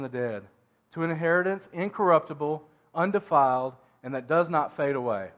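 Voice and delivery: measured, emphatic Bible reading; preacher reading scripture to the congregation. Acted. Reads scripture aloud.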